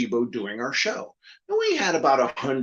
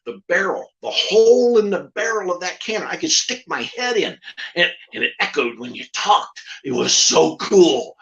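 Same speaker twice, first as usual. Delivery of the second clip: puppet voice; 3 dB louder than usual. Retold or imitated. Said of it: "the puppet goes".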